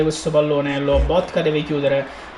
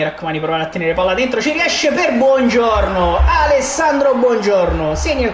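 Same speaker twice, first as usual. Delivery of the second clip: excited goal call. Acted. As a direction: build up to the goal. Goal commentary rising.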